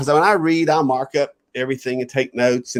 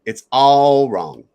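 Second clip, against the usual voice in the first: put-on child's blunt verdict; slower than usual. Child correcting the speaker.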